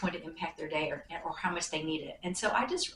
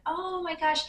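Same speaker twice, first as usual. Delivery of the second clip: excited gasp; 10 semitones higher than usual. Retold or imitated. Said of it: "she said".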